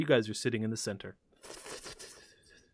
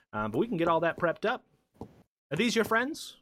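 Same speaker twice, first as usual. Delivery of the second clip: lightly higher, polite host voice; genial host NPC; 4 semitones higher, faster than usual. Acted. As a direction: invite the winner to dinner. GM plays Mister Witch.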